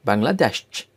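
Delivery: "Bangladesh" in German, ending in a strong 'desch'; German-style "Bangladesh" with a crisp last syllable; German pronunciation. Shown as a demonstration. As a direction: say "Bangladesh" as bang-la-DESCH. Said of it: "names of countries with German accent".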